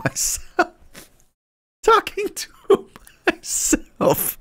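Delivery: a sudden, wildly high, stretched mock wail that breaks into a cry. Streamer alone in his room, hamming up a high, stretched mock wail. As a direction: wail it like a lonely, tragic soul, hammed up.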